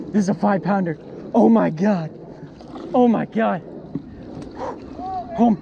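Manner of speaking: high, loud, real excited yelling; loud freak-out. Real, not acted. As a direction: yell it out, stunned by the huge catch. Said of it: "so much for not being loud".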